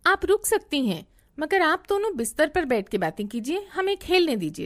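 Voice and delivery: put-on a six-year-old telling the grown-ups to leave them be; firm little daughter. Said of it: "लेकिन बेटी ने कहा".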